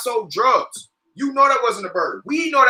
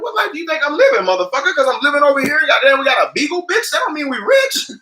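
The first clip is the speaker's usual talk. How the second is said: mock angry retort; 6 semitones higher than usual. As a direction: snap back fast at the nosy neighbor. Retorts to nosy neighbor.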